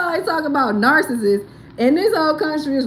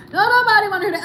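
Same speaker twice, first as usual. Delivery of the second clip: mock exasperation; 8 semitones higher, 5 dB louder, much faster than usual. Exasperated outburst.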